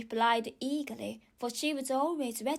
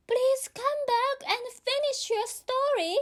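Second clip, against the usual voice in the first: put-on high girlish call after someone leaving; 13 semitones higher, 4 dB louder than usual. A narrator's reading. Alice calling after the departing mouse, high voiced. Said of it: "Alice called after it".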